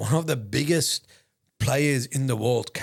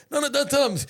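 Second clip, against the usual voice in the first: high, loud imitation of someone cutting in; mock-alarmed protest; urgent retold warning; 6 dB louder than usual. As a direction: jump in to stop him, pitched way up. Gustav urgently stopping the offer.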